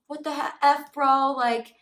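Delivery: loud, hammed-up challenge to a bro; picking a fight. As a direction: imitate a guy squaring up for a fight. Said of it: "he was trying to fight him".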